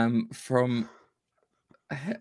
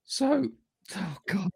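laughing fit; 12 semitones higher, slower than usual. Real, not acted. Giggling fit trying to present.

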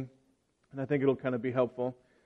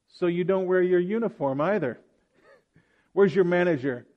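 lightly voiced haughty customer, pitched up; rude customer; 3 semitones higher than usual. Customer scolding the worker about her uniform, mock haughty. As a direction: play the entitled shopper, a touch higher. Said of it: "The customer".

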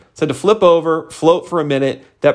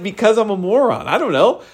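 higher, laughing self-put-down; laughing self-mockery; 7 semitones higher than usual. Answering his wife, laughing at himself. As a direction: laugh it off at yourself. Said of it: "I was like".

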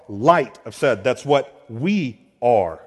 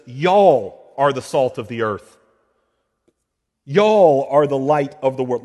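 a light Southern English "Y'all", said louder; lightly Southern English reading of Jesus's words; 7 dB louder than usual. Shown as a demonstration. Preacher to church, mock Southern English y'all. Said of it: "Translated in some good Southern English".

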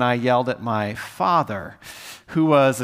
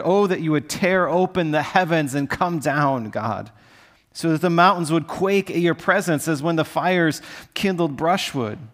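a touch of frustration in the plea; mildly exasperated cry to heaven; frustrated reading; 3 semitones higher than usual. Shown as a demonstration. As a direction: read it like you're fed up with God. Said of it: "it sounds so frustrated".

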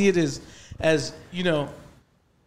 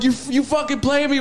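higher-pitched mock outrage; mildly indignant imitation of being mad; 5 semitones higher than usual. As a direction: recreate an angry accusation, lightly. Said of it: "what's your mad voice?".

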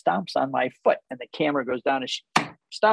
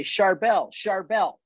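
calling a name twice, earnest and raised; urgent double call; 5 semitones higher, slower than usual. Shown as a demonstration. Friend calling out to get full attention, urgent. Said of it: "if we're talking and I say".

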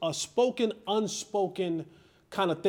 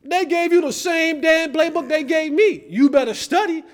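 Roy's warning; 9 semitones higher, 7 dB louder than usual. Retold or imitated. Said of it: "he look at you and go".

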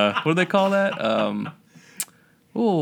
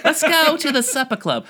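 put-on old woman voice; 11 semitones higher, 4 dB louder than usual.

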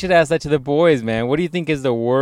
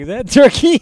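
put-on high, loud Filipino accent parody; squeaked-up fake Filipino accent; mock Filipino accent; 10 semitones higher, 8 dB louder than usual. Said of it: "fucking a Filipino chick".

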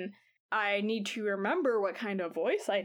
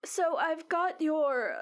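put-on old lady voice; 5 semitones higher, slower than usual. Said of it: "like that".

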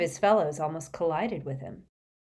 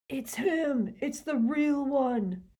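recalled shout; 8 semitones higher, much slower than usual. Retold or imitated. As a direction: replay the cry in your head, no volume.

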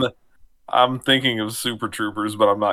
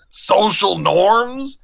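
slow mock echo; 7 semitones higher, 3 dB louder, much slower than usual. Echoing the punchline slowly.

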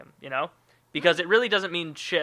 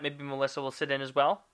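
rising question. Shown as a demonstration. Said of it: "I just have to phrase it differently".

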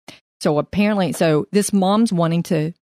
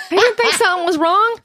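incredulous; 13 semitones higher, 3 dB louder than usual. Pretend. Co-host joking in disbelief at wife.

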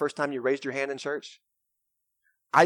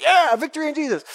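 high, loud, exuberant mock congregation; congregation belting out; 13 semitones higher, 8 dB louder than usual. Congregation answering the worship leader's cue, belted out. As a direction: answer the call at full voice. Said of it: "And so we go".

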